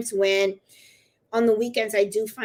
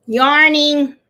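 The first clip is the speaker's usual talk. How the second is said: much louder, higher, drawn-out word; playful exclamation; 4 semitones higher, 10 dB louder than usual. Real, not acted. Teasing the dog as he yawns, playful exclamation. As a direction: sing it out loud and long.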